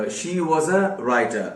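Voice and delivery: each word laid out slowly for learners; slow teacher's example sentence; slow dictation. Shown as a demonstration. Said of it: "ठीक है".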